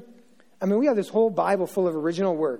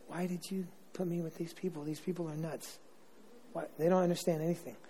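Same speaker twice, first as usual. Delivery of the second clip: hushed complaint to God; 2 semitones lower, 14 dB quieter than usual. Retold or imitated. Jesus quietly griping to God about these people, hushed. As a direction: murmur it like a private gripe to the father.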